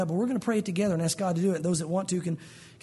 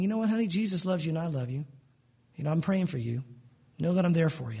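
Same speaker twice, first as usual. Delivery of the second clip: tender reassurance; 4 semitones lower than usual. Acted. Parent reassuring a rebellious child.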